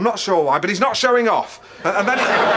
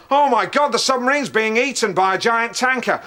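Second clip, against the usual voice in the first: mock horrified quote. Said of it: "looks through it and goes".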